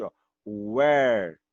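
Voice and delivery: where said with a w glide, like uér; slow uér for where; alternative pronunciation. Shown as a demonstration. Teacher offers students another way, uér. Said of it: "a pronúncia você poderia fazer assim".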